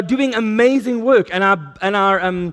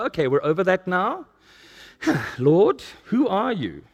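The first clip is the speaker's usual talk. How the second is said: humble prayer; 4 dB quieter than usual. Shown as a demonstration. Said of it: "and go".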